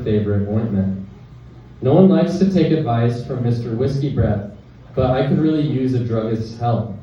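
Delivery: measured poem recital with short pauses; poetry reading. Acted. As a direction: read it as verse, line by line. Reads own poem aloud.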